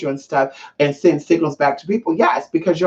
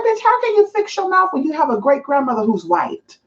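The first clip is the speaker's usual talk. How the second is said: higher, heated comeback; pitched-up outraged scolding; indignant retort; 6 semitones higher than usual. Retold or imitated. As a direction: tell her off with disbelief. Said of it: "And I'm just like".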